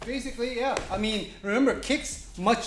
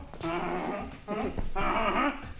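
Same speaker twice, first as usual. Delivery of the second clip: drawn-out French "hon-hon-hon" chuckle; hammed-up nasal French chortle; mock French laugh. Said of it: "I became French".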